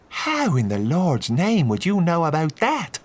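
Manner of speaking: a startled clergyman demanding answers; priest, shocked and suspicious; priest Vickers. A narrator's reading. Narrator voices the priest.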